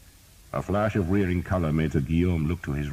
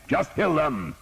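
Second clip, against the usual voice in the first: high, loud order; shouting; 12 semitones higher, 4 dB louder, slower than usual. A narrator's reading. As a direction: urge the footmen on. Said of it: "he shouted".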